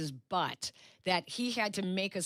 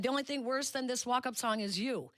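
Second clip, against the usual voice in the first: retold insult; 5 semitones higher, faster than usual.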